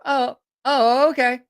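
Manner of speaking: high startled oh okay; surprised. Retold or imitated. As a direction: caught off guard, high and startled. Startled reply to insult.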